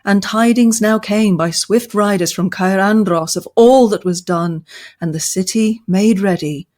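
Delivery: steady, measured epic reading; story narration. A narrator's reading. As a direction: tell it like an old chronicle. Reads Tolkien passage aloud.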